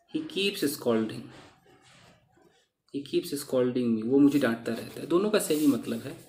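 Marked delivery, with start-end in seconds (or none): 0.1-1.2 slow model sentence. Shown as a demonstration. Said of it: "कई बार on नहीं भी लगता है". 2.9-4.0 spelled out slowly for learners; slow model sentence. Shown as a demonstration. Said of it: "कई बार on नहीं भी लगता है".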